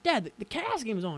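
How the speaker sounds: mock pleading with a parent; protesting kid. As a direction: whine a mild protest, retelling it. Teen protesting bedtime to dad.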